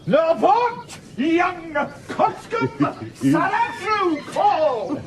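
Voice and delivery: high mock swagger; swaggering challenge. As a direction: ham up a blustering oath. Andrew rehearses swearing.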